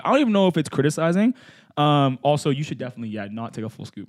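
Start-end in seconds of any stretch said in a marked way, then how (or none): 0.0-1.3 louder, higher teasing repeat of his line; mocking echo. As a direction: throw his words back at him, teasing. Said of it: "Here's my take".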